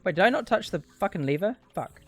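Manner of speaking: normal talking voice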